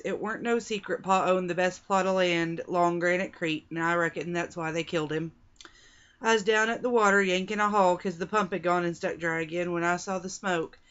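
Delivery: light Arizona cowgirl accent, read aloud; western cowgirl accent. Shown as a demonstration. Reviewer reads the novel's opening lines to viewers, light Arizona cowgirl accent. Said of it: "Everything is written like this".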